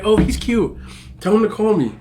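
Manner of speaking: mock high-pitched girl voice, chirpy; squeaky imitation of the girl; high girly cousin voice. Cousin relaying the guy, high mock girl voice.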